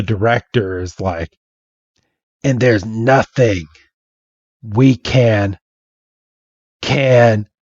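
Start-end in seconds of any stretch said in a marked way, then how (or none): 2.4-7.5 halting mock despair, with long pauses; mildly acted, broken-off sentence; choking up. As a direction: act someone faltering before breaking into tears. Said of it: "he just starts to cry".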